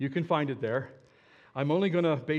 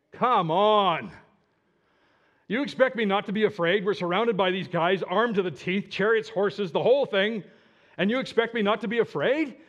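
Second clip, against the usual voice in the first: louder, higher incredulous complaint; exasperated protest; 4 semitones higher, 5 dB louder than usual. Acted. Servant protesting to Elisha, loud and incredulous. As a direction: throw his calm back at him in disbelief.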